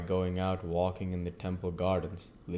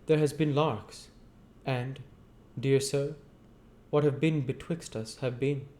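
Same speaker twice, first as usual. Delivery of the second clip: troubled Joe voice; 7 semitones higher than usual. Acted. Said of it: "appearing a little hurried and troubled".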